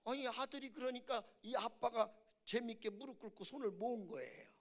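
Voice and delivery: ordinary talk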